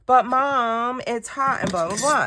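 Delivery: put-on high whining kid voice, pleading; whiny daughter. Daughter begging mom for ice cream, high whine. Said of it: "her voice kept getting more and more shrill".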